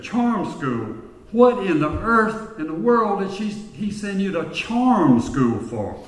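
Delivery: a disbelieving society lady; astonished. Acted. Rich woman's astonished reply.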